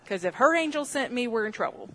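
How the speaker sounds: words spilling through laughter; laughing. Real, not acted. Preacher telling the congregation the punchline, laughing. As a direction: say it while cracking up.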